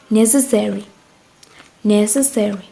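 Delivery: "necessary" with NE stressed; stress on first syllable. Shown as a demonstration. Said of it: "also the same as before".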